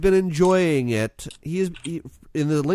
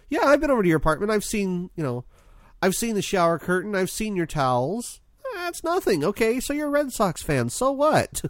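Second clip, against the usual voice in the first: put-on higher, dismissive quote of the girlfriend; 5 semitones higher than usual. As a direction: brush it off like it's obvious. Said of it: "she goes".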